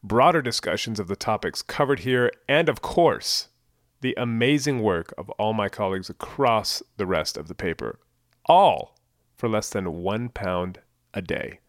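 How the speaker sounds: upbeat podcast promo read. Acted. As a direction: sell the subscription, upbeat.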